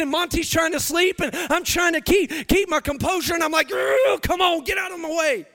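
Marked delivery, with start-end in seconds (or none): 3.7-5.5 exasperated groan into a mock driver's complaint; irritated. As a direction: act out losing your composure behind the wheel, mildly. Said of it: "I'm getting irritated".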